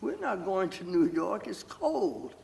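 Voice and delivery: imitating an appalled mother refusing to go; incredulous mother. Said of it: "My mother looked at me like I was out of my mind".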